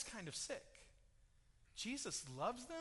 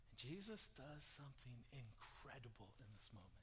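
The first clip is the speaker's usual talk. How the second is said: much softer and lower, drawing them in; hushed storytelling; 6 semitones lower, 10 dB quieter than usual. Acted. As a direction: drop to a near hush for the grave scene. Hushed climax of Lazarus story.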